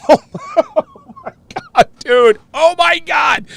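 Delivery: a real burst of amazement; excited shout. Real, not acted. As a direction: blurt it out in disbelief. Reacting to angry Spanish cussing.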